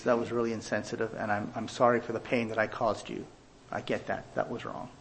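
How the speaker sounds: sincere specific apology. Shown as a demonstration. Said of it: "Admit specifically what you did".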